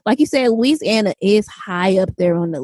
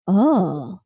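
amused disbelief; 7 semitones higher, much slower than usual. Retold or imitated. Reacting to hearing Baltimore speech online, amused disbelief. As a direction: pitch shooting up in mock surprise. Mimics own shocked reaction to accent.

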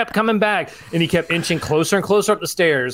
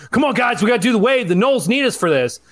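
mock rallying cheer; 6 semitones higher than usual. Wave guy rallying the section.

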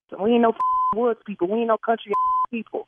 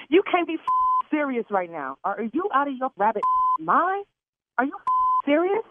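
furious disbelief; 3 semitones higher than usual. Real, not acted. Caller outraged at prank.

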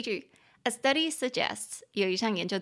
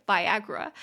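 "Viagra" with the A stressed; teacher's demo of "Viagra", accent on AG; stress on second syllable. Shown as a demonstration. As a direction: say vi-AG-ra for "Viagra", middle syllable strongest. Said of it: "中音节在第二音节".

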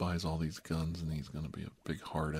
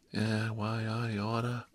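mock East Side street threat; slightly raised Bowery-kid bluster; Bowery Boys tough kid; 3 semitones higher, 4 dB louder, slower than usual. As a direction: lightly imitate an old movie wise guy. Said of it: "like one of the Bowery Boys".

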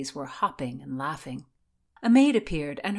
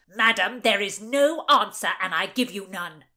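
loud, raised, irritated retort; barked; 2 semitones higher, 6 dB louder than usual. A narrator's reading. Oxford rebuffs Doradine's probing, barking. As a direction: bark it hard, then drop back. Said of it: "He barked".

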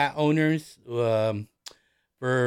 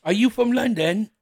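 high, louder fake London accent; badly imitated Londoner, pitched up; 9 semitones higher, 5 dB louder than usual. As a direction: ask it in a hammed-up London accent. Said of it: "doing these accents horribly".

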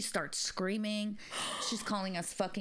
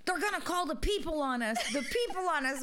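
higher, laughing worried daughter; retold panic; 7 semitones higher than usual. Daughter fretting aloud about being reported, laughing. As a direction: fret that they'll be reported. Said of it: "Carolyn kept going".

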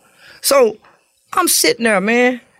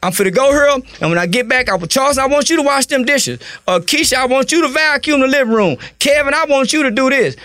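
put-on higher, calm grandmother giving the kids their chores; imitating grandmama; 6 semitones higher than usual. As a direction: hand out chores like a patient grandmother. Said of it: "when grandmama say".

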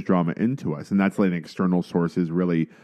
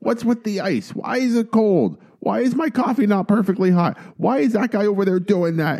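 high, strained grumpy complaining; old man voice; 13 semitones higher than usual. Retold or imitated. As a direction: squawk it like a cranky old man. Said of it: "you're doing your old man voice".

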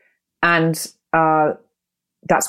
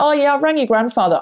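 casual investigator; 8 semitones higher than usual. Retold or imitated. Imitating the careless investigator.

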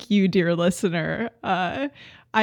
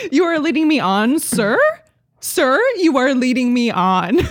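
louder quoted line, laughter creeping in; laughing quote; 3 semitones higher, 4 dB louder than usual. Retold or imitated. To co-host, favorite quote said half-laughing.

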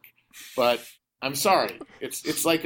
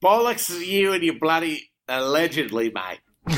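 indignant hammed-up Aussie accent; mock Australian accent. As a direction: scoff back in a badly faked broad Aussie accent. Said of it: "doing an amazing Australian accent".

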